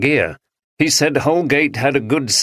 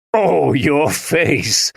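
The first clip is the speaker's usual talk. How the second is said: spooky exclaim; 3 semitones higher, much slower than usual. A narrator's reading. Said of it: "he exclaimed".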